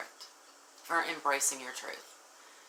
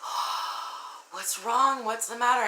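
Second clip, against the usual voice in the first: higher, worried mock fuss; concerned onlookers; 7 semitones higher than usual. Friends asking why you're crying, higher and fussing. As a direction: voice the friends fretting over you. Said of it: "everybody's like".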